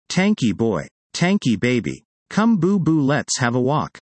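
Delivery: put-on sing-song baby talk to a puppy; cutesy baby voice. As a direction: coo the pet names sweetly. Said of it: "that emasculating baby voice".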